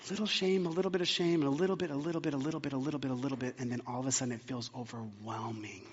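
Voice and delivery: fading from soft to almost silent as shame builds; creeping whisper. Retold or imitated. Evil one's creeping shame.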